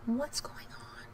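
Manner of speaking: garbled fan audio; whispered through a buzzing fan. Real, not acted. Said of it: "I sound like I'm talking into a fan".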